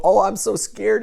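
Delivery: a high, loud, hammed-up squeal of fright; mock scared. Mocking panicked people who rush to act, high and loud mock fright. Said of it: "You don't just go".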